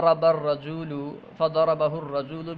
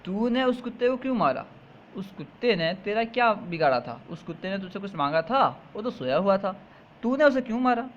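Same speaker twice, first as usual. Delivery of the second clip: lightly voiced scolding man, pitched higher; a hint of an indignant man rebuking the boy; man's indignant retort; 4 semitones higher than usual. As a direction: throw the question back at him, a touch of mock outrage. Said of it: "جواب میں کہتا ہے".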